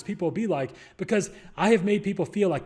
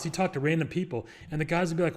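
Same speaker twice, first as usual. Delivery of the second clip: ordinary delivery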